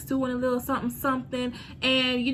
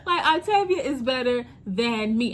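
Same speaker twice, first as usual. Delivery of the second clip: laughing. Real, not acted. Still laughing after outburst.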